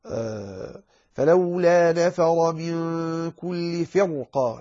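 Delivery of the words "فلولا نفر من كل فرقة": slow tajweed chant, vowels held long; Quranic recitation. Shown as a demonstration. Teacher reciting an example of heavy ra, slow chant. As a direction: recite it slowly on a sustained tone.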